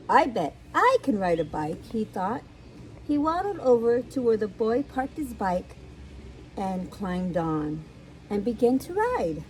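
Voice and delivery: animated picture-book reading; lively storyteller with swooping pitch; story narration. A narrator's reading. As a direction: read it to small children, bouncy and clear. Reads a picture book aloud.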